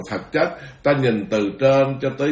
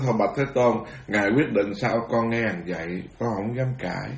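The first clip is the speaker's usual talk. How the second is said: humble submission; 3 semitones lower, 6 dB quieter than usual. Acted. Ananda gives in humbly.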